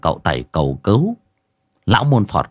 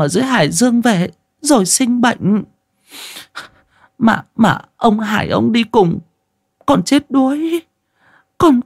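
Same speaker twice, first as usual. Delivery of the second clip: put-on wailing old wife. A narrator's reading. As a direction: plead like a distraught grandmother. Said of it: "kêu lên".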